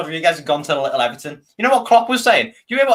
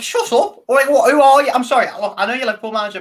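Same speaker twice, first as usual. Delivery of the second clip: much higher, louder mock outburst at the manager; exasperated retort; 7 semitones higher, 3 dB louder than usual. Retelling his reaction to the Liverpool manager, high exasperated outburst. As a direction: snap back at someone talking down to you. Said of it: "I'm like".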